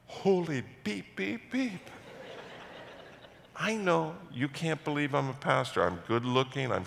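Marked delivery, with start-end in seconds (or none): 0.1-1.9 mock bleep. Bleeped-out swearing imitation.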